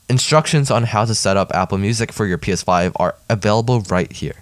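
crisp news-reader delivery. Acted. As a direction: read it like a tech news bulletin. Reads news item aloud.

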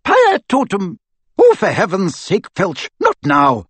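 exasperated spellcasting. A narrator's reading. McGonagall casting while Filch interrupts, loud and impatient. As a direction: fling the spell, then wave the caretaker off.

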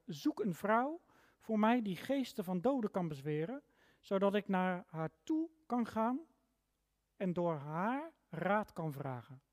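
reading the Bible aloud to the congregation, measured and clear; scripture reading. Acted. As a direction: give the text weight, line by line. Reads the Bible passage aloud. (plechtig voorgelezen bijbeltekst)

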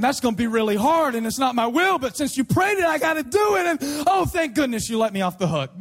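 hammed-up worry turning to relief; exaggerated relieved gush; mock relief. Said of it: "I was really nervous".

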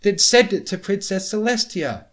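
high, loud and insistent. A narrator's reading. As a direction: shout the demand. Starlight insisting loudly.

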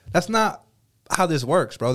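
high, disbelieving bro; incredulous scolding. Retold or imitated. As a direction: call him out, baffled. Scolding friend in restaurant.

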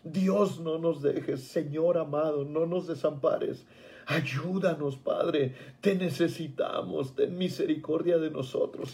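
hushed retelling of a tearful plea; retold tearful prayer. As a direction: recall a humble, weary plea to God. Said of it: "lloraba y le decía".

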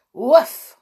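loud high bark, like a dog; one sharp woof. Acted. Dog Timmy barks.

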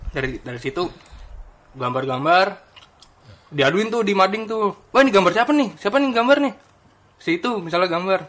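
talking while chewing loudly; noisy mouthfuls between words; messy loud eating. Real, not acted. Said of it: "Ini ngomong-ngomong sambil makan asik nih ya". (bicara sambil mengunyah keras)

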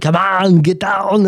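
mock Russian-accented shout; drawn-out Russian-style call; Russian-sounding. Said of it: "it sounded Russian".

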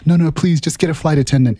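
high-pitched British or South African lady, imitated; lightly put-on British or South African accent. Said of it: "so they all have accents".

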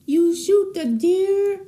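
halting attempt at a Brooklyn accent; slow, unsure Brooklyn movie accent; Marissa Tomei. Shown as a demonstration. Friend mimicking a film for the host, shaky Brooklyn accent. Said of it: "I'll try to be like Marissa Tomei".

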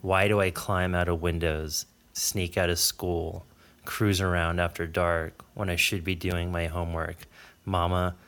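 low, measured reading voice, softening at line ends; literary reading aloud. Acted. Reads a passage aloud from book.

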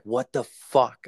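a slow, drawn-out what the fuck; stunned at finding the machines on; shocked outburst. Retold or imitated. Telling a friend about the haunted home gym, slow stunned disbelief.

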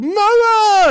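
very high, loud delighted shriek; toddler shriek for mama. Retold or imitated. Dad imitates son spotting mom's shirt, shrieking mama. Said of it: "he sees my wife's shirt".

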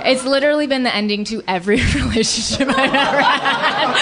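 laughing through the line, pitched high. Real, not acted. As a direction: let the laugh carry the words up. Laughing at her own pattern.

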